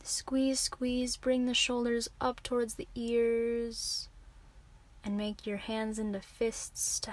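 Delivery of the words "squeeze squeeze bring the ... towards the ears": tensed, insistent coaxing; urging a squeeze. Real, not acted. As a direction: coax the muscles tighter, stretching the last word. Coaching muscle tensing before release.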